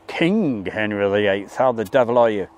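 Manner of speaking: mock royal herald. Greeting a viewer named Henry with mock royal ceremony. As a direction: proclaim him like a court herald.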